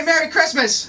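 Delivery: hype-man call to the audience; call-and-response shout. Real, not acted. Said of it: "Everybody say".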